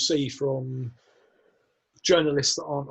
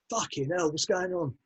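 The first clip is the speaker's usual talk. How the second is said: lightly acted player's baffled reaction, on the quiet side; mock a stunned player, voice kept down; Eriksen impression; 2 semitones higher, 6 dB quieter than usual. Players reacting as Mourinho walks in, lightly mimicked Eriksen. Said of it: "impression of Eriksen".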